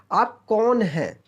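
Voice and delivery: slow questioning tone on कौन; asking a question. Shown as a demonstration. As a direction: ask आप कौन हैं like a real question. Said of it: "question पूछा जा रहा है". (सवाल पूछने के लहजे में)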